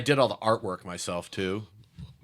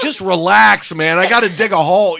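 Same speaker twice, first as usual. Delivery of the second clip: calm retort; 9 semitones higher, 13 dB louder than usual. Retold or imitated. Cable guy calm retort.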